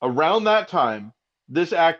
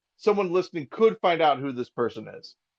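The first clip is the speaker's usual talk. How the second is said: ordinary talk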